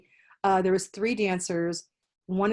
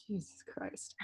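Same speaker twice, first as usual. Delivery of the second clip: mock exasperated sigh; 17 dB quieter, slower than usual. Other dancers' silent reaction.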